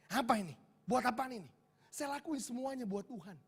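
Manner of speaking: indignant protest. Retold or imitated. Offended young servant refusing an envelope, mildly angry. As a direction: protest as if offended, without shouting. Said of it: "saya marah".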